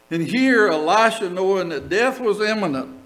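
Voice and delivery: usual speaking voice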